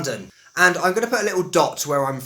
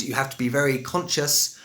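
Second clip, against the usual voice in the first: laboured, careful RP accent; over-articulate in received pronunciation. Shown as a demonstration. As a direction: consciously correct RP British accent. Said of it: "That accent for me is extremely unnatural".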